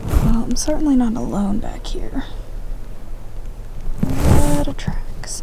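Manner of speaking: whispering. Real, not acted. Whispering while stalking turkeys.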